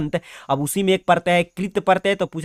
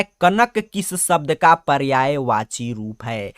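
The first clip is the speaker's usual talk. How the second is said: slow question reading; 2 semitones lower, slower than usual. Shown as a demonstration. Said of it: "देखिए क्या कह रहा है".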